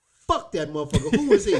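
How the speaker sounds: heated outburst with hard emphasis; emphatic dismissal. Real, not acted. Venting to friend about the man who hollered, emphatic. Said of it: "You said that with emphasis".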